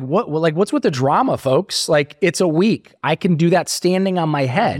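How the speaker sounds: high, scoffing brush-off; dismissive. Retold or imitated. A retold addict scoffs at his worried friends, high and dismissive.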